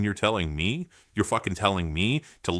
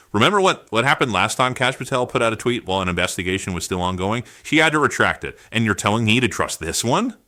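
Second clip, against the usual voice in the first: furious rhetorical challenge; angry outburst; 3 dB louder than usual. Real, not acted. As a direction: demand an answer, outraged. Furious rant.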